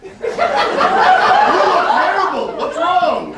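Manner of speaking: hammed-up New Zealand bartender; mock New Zealand accent. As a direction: put on a rough attempt at a New Zealand accent. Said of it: "in whatever sort of crazy accent they have down there".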